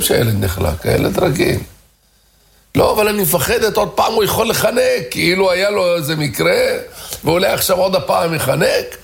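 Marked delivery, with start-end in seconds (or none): 2.7-9.0 high, pleading, scared voice; fearful screaming. Retold or imitated. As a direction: sound frightened for the child. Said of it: "ככה צורחת". (אם מפוחדת וצועקת)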